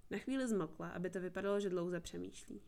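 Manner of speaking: ordinary delivery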